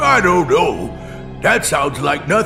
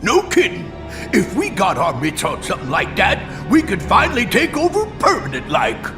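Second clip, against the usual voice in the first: excited scheming henchman; faster than usual. Acted. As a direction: rush it out, thrilled by the scheme. Henchman thrilled at chance of takeover.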